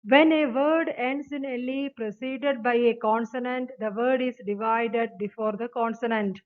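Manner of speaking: each word of the definition read out very slowly; slow rule reading. Acted. Teacher reads the definition to students, slow dictation. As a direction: dictate it to the class.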